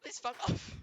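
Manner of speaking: breathy, whispered polite dismissal; mock-courteous whispered insult; hushed punchline. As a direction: slip the insult out under your breath.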